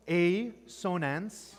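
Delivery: "a sonance" slowly pulled apart, with "a" as "ay"; split into parts. Shown as a demonstration. Teacher breaks down the term for the class, "a sonance" slowly split. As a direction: say "a sonance" as two words, "ay ... so-nance". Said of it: "So you can".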